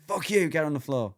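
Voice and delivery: mock domineering Doberman. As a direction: order them down as a dominant dog would, half in jest. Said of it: "dominates the dog".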